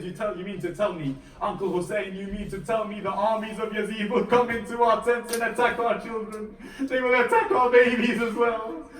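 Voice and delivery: indignant questioning building to a loud, high cry; retold indignant outburst. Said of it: "blood of Ali begins to boil".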